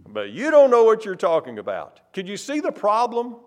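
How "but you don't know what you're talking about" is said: louder indignant retort; indignant Peter. Acted. Peter rebuking Jesus, louder and indignant. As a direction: push the rebuke out hard. Voicing Peter contradicting himself.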